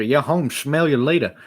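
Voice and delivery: loud, slow, pumped line; enthusiastic. Acted. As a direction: sell it with hype. Enthusiastic rap take.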